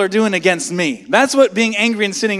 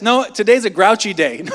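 laughing through a grouchy excuse; a laughing, half-joking grouch; laughing mock excuse; 4 dB louder than usual. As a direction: chuckle as you play the grouch. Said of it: "How about this?".

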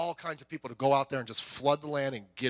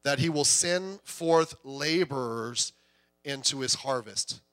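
scripture reading; slower than usual. Acted. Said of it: "The last verse there".

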